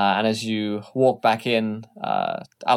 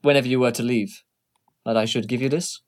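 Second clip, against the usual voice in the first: secretary voice; much faster than usual. Acted. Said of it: "She stops you ... and says".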